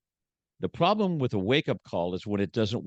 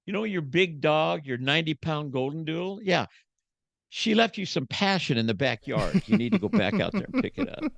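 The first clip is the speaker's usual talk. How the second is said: higher deadpan wife imitation; wife's dry jab; 6 semitones higher than usual. Wife sending husband to clean up after the dog, higher deadpan voice. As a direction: deflate him like a no-nonsense wife. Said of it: "You know what she's gonna say?".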